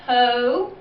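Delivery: Ho-tel split by a long pause; syllable break. Shown as a demonstration. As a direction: say Ho, wait, then tel. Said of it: "that's a syllable break".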